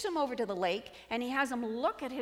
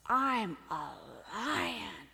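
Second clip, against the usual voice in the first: mildly roared, stretched-out declaration; roaring lion; 3 semitones lower, 4 dB louder, much slower than usual. Acted. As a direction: let a touch of roar into it. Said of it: "he gets bigger with a roar".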